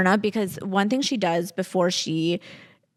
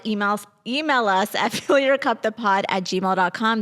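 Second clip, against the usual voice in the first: laughing. Real, not acted. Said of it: "I can't stop laughing".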